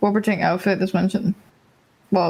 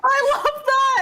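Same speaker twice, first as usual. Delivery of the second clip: laughing; slower than usual. Real, not acted. Laughing delight at forgotten names.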